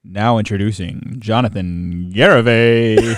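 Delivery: slow stadium announcer intro; mild announcer voice, drawn out. Shown as a demonstration. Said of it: "Give me your best one".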